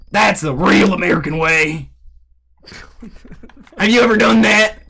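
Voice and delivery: hammed-up country Southerner; tall-tale bragging in a thick Southern accent; Southern man accent. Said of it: "I being the real Southern man I am".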